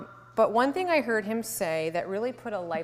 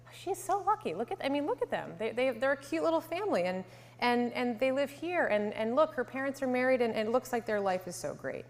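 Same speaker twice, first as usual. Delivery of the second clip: lightly acted gushing outsiders, higher at first; admiring onlookers; 4 semitones higher than usual. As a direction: imitate neighbours admiring a family from outside. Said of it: "most people on the outside would say".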